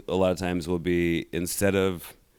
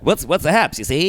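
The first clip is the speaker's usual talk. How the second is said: higher, louder 1930s radio patter; old-timey cool fella; 7 semitones higher, 3 dB louder than usual. Pretend. Host mimics old-time fellas chatting, higher radio patter. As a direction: play a slick fella from back then. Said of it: "That was the way to sound cool".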